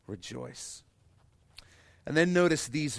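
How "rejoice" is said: soft echo. Shown as a demonstration.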